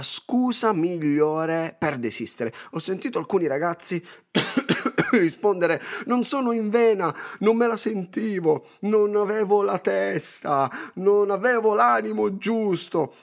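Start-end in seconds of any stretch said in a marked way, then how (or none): 6.1-13.2 higher, whiny mock excuses. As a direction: imitate lazy kids making excuses. Mocking kids' lame excuses.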